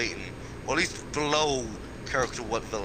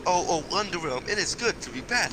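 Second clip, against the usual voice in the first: higher, showier villain read; hammed-up Bill Cipher line; 5 semitones higher than usual. Shown as a demonstration. Friend rereads the stolen quote to mock it, hammed up. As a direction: ham up the famous villain quote.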